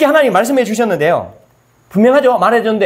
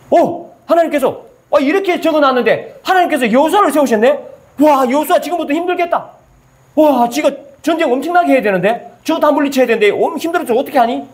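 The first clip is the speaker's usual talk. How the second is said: higher-pitched mock pity, wrong reading; mock fretting reader; 5 semitones higher than usual. Preacher mimicking a worried Bible reader, mock pity. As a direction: sigh over Joshua's hardship in mock pity. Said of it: "이렇게 말하면 됩니까?".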